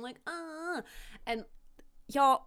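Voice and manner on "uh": pained groan. Retold or imitated. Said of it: "holding his ears going".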